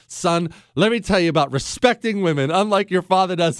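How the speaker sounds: lightly voiced motherly lecture; lecturing mother. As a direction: imitate a mother earnestly lecturing her son. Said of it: "trying to give him this lecture".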